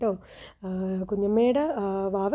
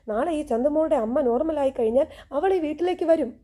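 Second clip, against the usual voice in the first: retold angry scolding; 4 semitones higher than usual. Navya scolding her sister-in-law, mock angry. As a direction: voice a mildly furious sister. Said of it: "Navya ദേഷ്യപ്പെട്ടുകൊണ്ട് ചോദിക്കുകയാണേ".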